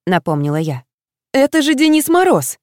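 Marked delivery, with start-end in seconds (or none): 1.3-2.6 exclaiming. A narrator's reading. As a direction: burst out in delight at Мороз. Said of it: "снова воскликнула Юлька".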